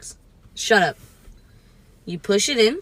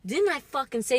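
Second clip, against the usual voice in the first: stern scolding; 2 semitones higher, 6 dB quieter than usual. Acted. First scolding, then escalates.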